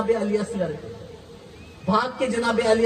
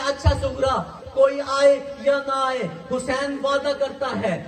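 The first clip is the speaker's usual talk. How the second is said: crying; 3 semitones higher than usual. Acted. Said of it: "Hussain रो के कहते हैं".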